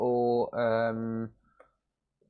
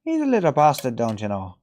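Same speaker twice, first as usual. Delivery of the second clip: mock Irish. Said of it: "it's an Irish word".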